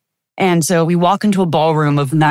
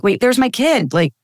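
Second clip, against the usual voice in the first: surprised recognition; 5 semitones higher than usual. Retold or imitated. Recognizing her kid in video.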